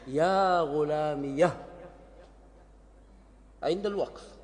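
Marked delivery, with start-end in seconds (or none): 0.1-1.6 slow يا غلامي يا, ending held at the pause; pausal form with ha. Shown as a demonstration. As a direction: stretch the final يا slowly as a pause form. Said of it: "فتقول". (وقف بهاء السكت ببطء)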